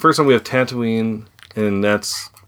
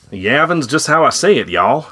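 mock Southern accent; 5 semitones higher, 3 dB louder than usual. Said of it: "talking in a southern".

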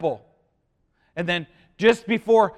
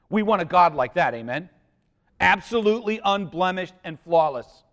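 normal talking voice

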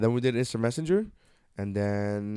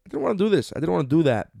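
Bill Burr impression; 6 semitones higher, 4 dB louder than usual. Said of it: "Now I'm Bill Burr in this bitch".

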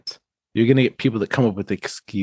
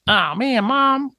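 pushover son; 6 semitones higher than usual. Retold or imitated. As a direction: give in to mom with a helpless sigh.

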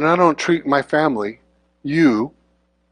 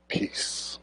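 whispered peace; 16 dB quieter than usual. Shown as a demonstration. Preacher stressing great peace, whispered. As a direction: whisper peace, barely voiced. Repeating the verse's key word.

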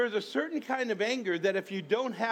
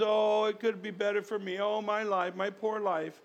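woe is me. Retold or imitated. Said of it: "a woe is me indignation".

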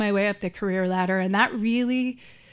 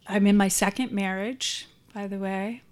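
mouth full. Real, not acted. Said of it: "I had gum in my mouth".

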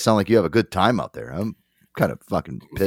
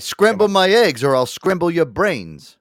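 mock threat; 8 semitones higher, slower than usual.

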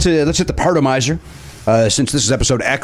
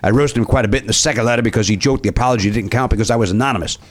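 put-on Cajun accent. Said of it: "doing an accent".

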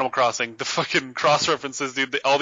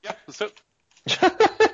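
unenthusiastic; 12 semitones higher, slower than usual. Real, not acted. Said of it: "You sound thrilled".

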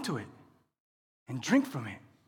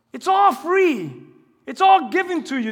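proclaiming; 5 semitones higher than usual. Acted. Preacher proclaiming the free gift.

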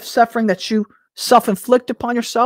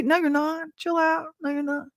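reassuring; 8 semitones higher, 7 dB quieter than usual. Real, not acted. Reassuring after mock panic.

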